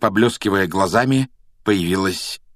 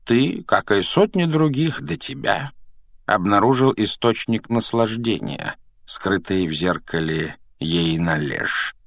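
professor explaining; slower than usual. Acted. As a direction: explain unhurriedly as a wise elder. Old professor addresses the boy.

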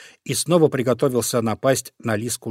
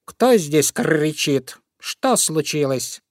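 calling out; 3 semitones higher, slower than usual. Acted. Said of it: "кто-то громко спросил".

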